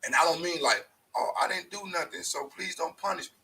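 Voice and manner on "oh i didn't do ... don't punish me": high whiny plea, lightly done; a put-on begging voice, louder; mock pleading. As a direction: whine it like a kid begging off. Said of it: "the reason I say it like that".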